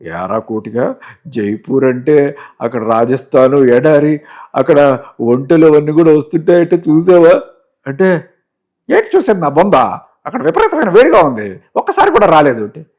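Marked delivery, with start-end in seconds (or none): 0.0-7.4 drawn-out master's voice, building loud; slow start, swelling into a loud question; Rao Gopal Rao. Acted. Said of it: "పక్కన రావు గారు". 8.9-12.6 high, loud comic servant grumble; hammed-up, exasperated servant; Kotigadu. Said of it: "MS Narayana గారు".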